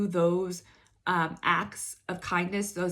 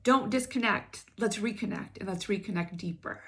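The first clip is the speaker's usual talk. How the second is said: urging plea; 3 semitones higher than usual. Retold or imitated. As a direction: urge them not to look away.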